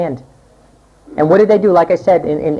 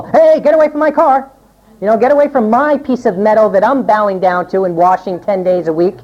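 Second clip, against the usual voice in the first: mock yell. Mock shouting at people near car.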